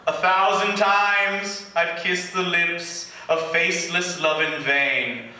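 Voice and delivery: slow, mock-tragic reading in a put-on English accent; fake English accent. Poet reciting his old emo verse in a fake English accent. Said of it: "if I do a fake English accent".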